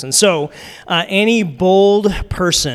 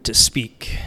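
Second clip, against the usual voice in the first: exaggerated slow-motion "slow", sinking into "to speak"; drawn-out SLOW; 3 semitones lower, much slower than usual. Shown as a demonstration. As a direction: stretch "slow" into a long wavering glide, then drop low on "to speak". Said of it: "we kinda had this little thing".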